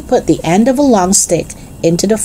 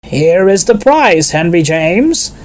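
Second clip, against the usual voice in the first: slightly raised, slow and deliberate announcement; prize presenter; slower than usual. Acted. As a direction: present the prize formally, taking your time. Race official presenting a prize.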